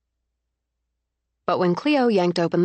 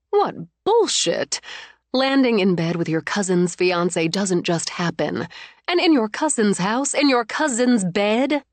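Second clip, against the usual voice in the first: outraged; 3 semitones higher than usual. Acted. Mother fuming over the cousin's betrayal, indignant. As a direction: let the outrage spill over.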